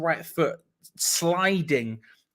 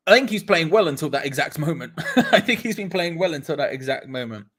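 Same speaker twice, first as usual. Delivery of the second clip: 1 laughing; 4 dB louder than usual. Real, not acted. Laughing at Antonio.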